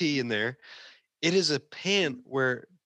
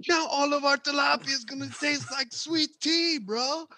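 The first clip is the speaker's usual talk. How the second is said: very high-pitched mock whine; hammed-up indignant protest; exasperated complaint; 13 semitones higher than usual. Cook laments his ruined tilapia, high exasperated complaint.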